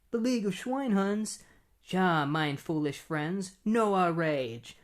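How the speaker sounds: drawn-out, hammed-up villain declaration; lightly voiced comic-book villain; mock German villain. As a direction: announce it slowly as a cartoon German baddie. German villains, read panel to panel.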